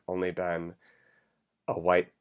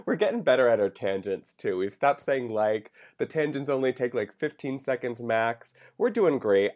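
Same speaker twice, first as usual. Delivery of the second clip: wired and buzzing on coffee; jittery, over-caffeinated chatter; too much caffeine; 3 semitones higher than usual. Real, not acted. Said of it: "I've had, like, five cups of coffee already today".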